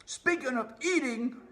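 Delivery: high, loud squeaky rat cry; greedy rat yelling; rat shouting. Acted. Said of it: "shouted one of the rats".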